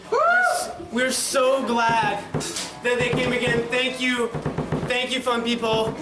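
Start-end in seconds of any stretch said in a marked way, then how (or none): 0.1-0.7 laughing. Real, not acted. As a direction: voice breaks high into a laugh. Laughing while thanking the crowd.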